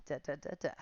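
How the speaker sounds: the same da da da da, now breathed as an unvoiced whisper. Shown as a demonstration. Instructor counting for the class in a whisper. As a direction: drop the counting rhythm to a whisper.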